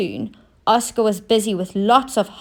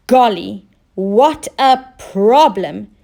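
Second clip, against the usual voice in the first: dismayed shout; 4 dB louder, slower than usual. Acted. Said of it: "shouted Oscar".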